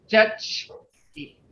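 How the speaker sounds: "Judge-ki" slowly, split after a barely sounded Judge; careful pronunciation. Shown as a demonstration. Teacher showing the hidden G, "Judge-ki" said slowly in two parts. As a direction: say "Judge-ki" slowly, keeping the G light in the mouth. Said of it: "That G is not showing up very much".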